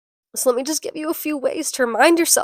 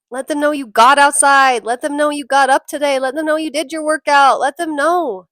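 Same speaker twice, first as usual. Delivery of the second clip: emphatic urging; 4 semitones higher, 8 dB louder than usual. Real, not acted. Urging listeners, emphatic repetition.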